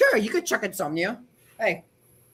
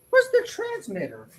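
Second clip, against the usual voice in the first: strained, fading voice; losing voice; 6 dB quieter, slower than usual. Real, not acted. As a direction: voice going hoarse. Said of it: "I'm losing my voice slowly".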